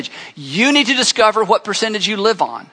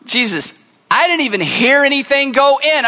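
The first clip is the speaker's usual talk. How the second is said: puzzled disbelief; 5 semitones higher than usual. Retold or imitated. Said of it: "the guys with Jesus are going".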